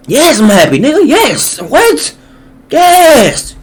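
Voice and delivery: high-pitched, gleeful yeses; overjoyed celebration. Acted. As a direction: celebrate with rising, squealed excitement. Celebrating answer to clip's question.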